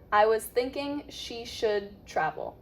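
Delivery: careful phrase with a clear TH in "thinking"; teacher modelling "was thinking" blended in a sentence; model phrase. Shown as a demonstration. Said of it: "turn it into a phrase".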